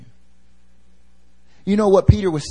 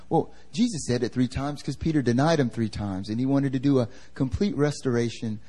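soft, smooth audiobook narrator read; 5 dB quieter than usual. Real, not acted. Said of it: "I don't know why I'm using that voice right now".

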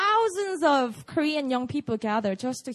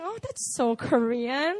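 slow, understated mock disdain; despising imitation; slower than usual. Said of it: "like, despising".

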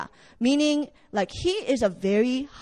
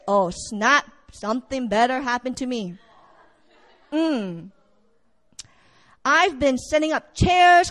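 entitled churchgoer; 4 dB louder than usual. Acted.

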